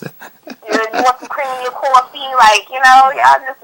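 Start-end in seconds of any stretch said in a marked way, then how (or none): 0.0-2.2 lightly rolled R's, West Coast twang; a hint of a West Coast accent; West Coast accent demo. Shown as a demonstration. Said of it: "that's how we talk".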